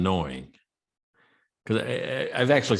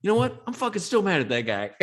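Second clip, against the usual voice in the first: much higher, laughing mock rage; mock angry subscriber; 11 semitones higher than usual. Host imitating the subscriber waking up angry, mock rage through laughter. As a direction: play the grumpy guy who wakes up still furious.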